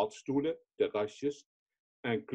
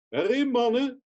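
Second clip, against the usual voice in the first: much higher, louder rallying call; 10 semitones higher, 4 dB louder than usual. Retold or imitated. Rescuer calls his men into the sea, high loud shout. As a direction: urge the men into the water. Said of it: "riep ik ze toe".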